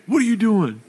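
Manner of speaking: put-on high, playful call to a toddler; mock surprised dad asking his son; playful what are you doing. Dad voicing himself to son.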